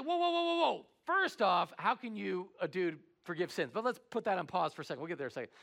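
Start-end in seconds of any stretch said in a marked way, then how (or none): 0.0-3.7 a startled crowd objecting; shocked crowd. Retold or imitated. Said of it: "everybody's there like".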